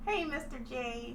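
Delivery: lightly voiced Harley Quinn, drawn out; Harley Quinn impression. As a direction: coo it slowly like Harley to her Mister J. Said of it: "Give me your best Harley Quinn impression".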